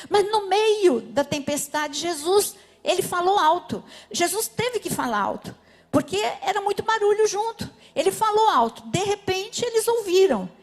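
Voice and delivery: rising preaching. Acted. Pastor telling how Jesus spoke out, building loud. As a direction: lift the voice as the sermon climbs.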